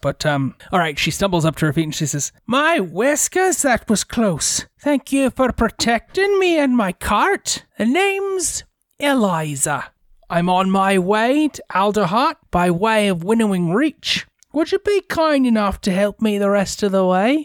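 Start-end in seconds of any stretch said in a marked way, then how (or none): 2.5-17.4 put-on slow, high-pitched Irish accent. Narrating a scene, voicing the woman saved with her cart, Eliza in an Irish accent. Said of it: "I was trying to go for an Irish accent".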